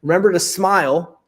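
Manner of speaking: smiling into the phone; smiling delivery. Shown as a demonstration. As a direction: say it with an audible smile. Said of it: "like that, right?".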